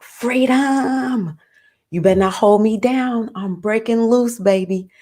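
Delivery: high free-spirited rebel shout, lifted pitch; Uranus as a rebel. Retold or imitated. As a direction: play Uranus breaking loose, voice soaring up. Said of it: "Uranus is like".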